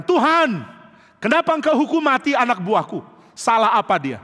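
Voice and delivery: high, loud reproach to God; angry protest. Retold or imitated. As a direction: demand an answer, hurt and angry. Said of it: "dia marah".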